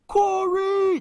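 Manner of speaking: high, loud yell across the gym; student in the stands yelling his name; shouted name. Retold or imitated. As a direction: call out over the crowd.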